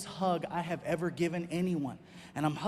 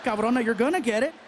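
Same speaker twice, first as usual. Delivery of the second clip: loud, raised-pitch comic threat; mock-threatening; 4 semitones higher, 9 dB louder than usual. Comedian retorts to his girlfriend laughing at dad's jokes, mock-threatening. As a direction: threaten her in comic outrage.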